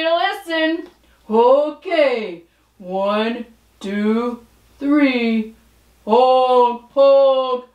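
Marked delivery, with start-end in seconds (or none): 6.1-7.7 honking like a goose. Pretend. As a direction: honk like a goose. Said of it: "That was the sound of a goose".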